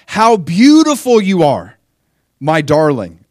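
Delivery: high, loud, slow and adoring; lavish praise on his bride; adoring Jesus voice. Acted. Jesus gushing over his beloved, high and adoring.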